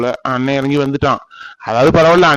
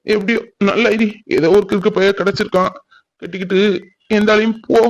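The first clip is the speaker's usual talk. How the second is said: wounded, higher-pitched lovelorn complaint; bitter heartbreak; 4 semitones higher than usual. Acted. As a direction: reproach the absent lover, then plead with God. Jilted lover laments alone to God. (காதல் வலியோடு கசப்பான புலம்பல்)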